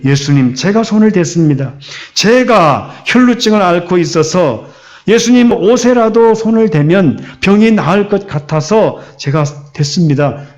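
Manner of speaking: understated frightened plea, apology lifting at the end; fearful confession. Acted. Preacher voices the woman confessing before Jesus, mildly fearful. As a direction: confess as if afraid, lightly acted. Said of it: "두렵고 떨리는 목소리".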